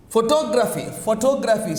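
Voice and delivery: photography stressed on "tog"; stress on second syllable. Shown as a demonstration. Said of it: "So when we say photography".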